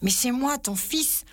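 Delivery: high, insistent cry; exclaiming. A narrator's reading. Child pleads to be known by his father, exclaiming. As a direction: cry out to be recognised, pitched well up. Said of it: "s'écria l'enfant".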